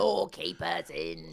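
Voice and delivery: imitating British caster. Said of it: "when he goes".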